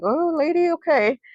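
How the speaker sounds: high-pitched imitation of a hesitant boy; wary little boy. Abused boy answering his stepmother, warily. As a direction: play the boy going along, pitched well up.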